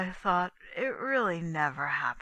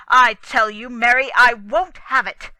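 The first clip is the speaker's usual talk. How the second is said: louder furious demand at his wife; angry shout; 5 semitones higher, 15 dB louder than usual. Acted. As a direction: lay down the law, loudly. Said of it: "John repeated the words".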